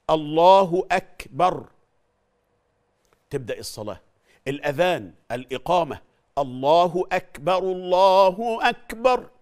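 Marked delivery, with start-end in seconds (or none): 0.1-1.7 loud, slow takbir, k of "أكبر" clearly released; aspirated kaf. Shown as a demonstration. Teacher modelling correct takbir, loud with audible k puff in "أكبر". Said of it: "لازم تسمع الهمس". 6.4-9.3 loud, slow, rising double takbir with breathy k in "أكبر"; call to prayer. Shown as a demonstration. Teacher showing the adhan opening, loud drawn-out call with clear k in "أكبر". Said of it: "هكذا".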